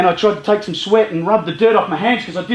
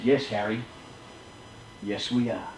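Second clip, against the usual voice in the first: soft gentle reply; 11 semitones lower, 15 dB quieter than usual. Retold or imitated. Rich friend answering gently.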